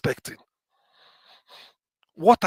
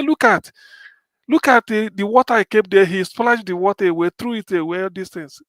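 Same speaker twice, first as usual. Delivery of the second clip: put-on high and loud, accusing the child; lightly voiced annoyed neighbour; complaining man; 4 semitones higher, 6 dB louder than usual. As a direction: point at the spilled water and scold.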